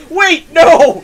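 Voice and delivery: shocked high yelp; surprised. Real, not acted. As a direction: blurt it out in alarm. Reacting to donation.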